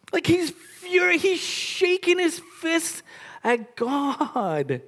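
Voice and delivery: high, fired-up preaching; heated emphasis. Real, not acted. Preacher describes furious Jonah, high and heated. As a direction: keep the outrage going as you describe him.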